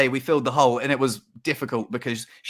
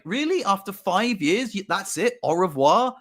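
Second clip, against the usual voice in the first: incredulous; 5 semitones higher than usual. Retold or imitated. Disbelief at cold goodbye.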